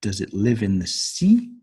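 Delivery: "sea" rises at the end; rising yes-no tune. Shown as a demonstration. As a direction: lift the voice on "sea". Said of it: "intonation goes up at the end".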